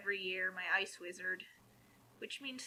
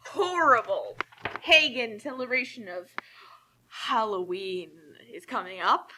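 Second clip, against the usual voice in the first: hammed-up horror, louder, dragging out Halloween; mock outrage; 6 dB louder than usual. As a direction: play a scandalised preacher, tongue in cheek. Mocking fundamentalist outrage about Halloween.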